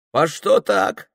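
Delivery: robber's high puzzled question; surprised robber. Acted. Robber asks Filka why.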